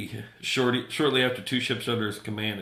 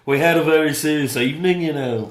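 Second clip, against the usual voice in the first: loud, higher mock-Liverpool voice; comic Scouse impression, pitched up; Liverpool accent; 5 semitones higher, 9 dB louder than usual. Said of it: "I'll do Liverpool".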